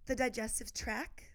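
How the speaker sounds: talking while lying down; lying flat on the floor. Real, not acted. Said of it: "I wanna lay here".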